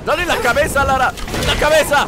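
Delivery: órdenes agudas y fuertes; apremio exaltado. Real, not acted. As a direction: apremia a Lara a disparar, alzando la voz. Exige a Lara que acierte. (gritos agudos de apremio)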